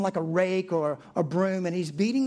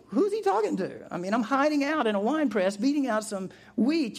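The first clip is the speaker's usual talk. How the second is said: high-pitched puzzled protest, settling gradually; lightly acted disbelief, pitched up; mildly incredulous; 6 semitones higher than usual. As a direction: act baffled at being addressed, starting high. Gideon doubts he is addressed.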